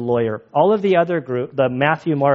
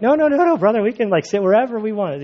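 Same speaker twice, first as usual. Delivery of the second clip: high, quick-fire acted objection; mock insistent reassurance; insistent protest; 6 semitones higher, faster than usual. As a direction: wave off the worry in a higher voice. Acting out other person's insistence.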